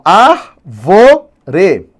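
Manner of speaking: "árvore" split slowly into ÁR, VO, RE; syllable by syllable. Shown as a demonstration. Teacher showing unstressed syllables, "árvore" slowly syllable by syllable. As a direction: sound out "árvore" in three separate syllables. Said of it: "menor intensidade de pronúncia".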